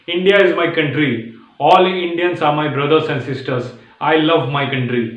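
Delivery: slow reading. Shown as a demonstration. Teacher reading a sample sentence slowly. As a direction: recite each phrase slowly. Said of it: "तो speed में मत बोलो".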